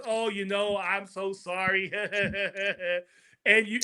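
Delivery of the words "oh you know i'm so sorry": slow, softer mock-sorry voice; a touch of syrupy false sympathy; fake apology. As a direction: sound sorry without meaning a word. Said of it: "he smiles in your face and he says".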